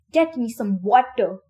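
loud, slow demand; raw yell. Acted. Exhausted Minho demanding water from Albie, loud and slow. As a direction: slowly hammer each word. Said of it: "Minho yelled, his voice raw".

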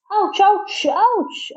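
high-pitched yelps of pain; grunted ouches. A narrator's reading. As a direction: yelp at each bump. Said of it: "I grunted on the bumps".

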